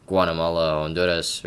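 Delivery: country names in a learned Spanish accent. Real, not acted. Student listing countries as Spanish class taught, Spanish accent. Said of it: "I'm pronouncing in a Spanish accent".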